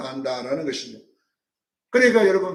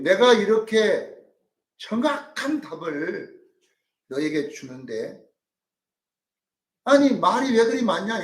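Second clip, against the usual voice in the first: slow and deliberate, then a sharper higher question; mock Zophar rebuke; 4 semitones higher, slower than usual. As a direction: lecture Job like a lofty elder. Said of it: "뭐라고 하냐면은".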